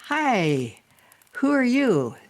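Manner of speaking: high, loud swooping greeting; wide-mouthed frog. Acted. Frog greeting a grasshopper, big wide-mouthed voice. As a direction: stretch the mouth wide on every vowel. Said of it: "trying to open my mouth really wide".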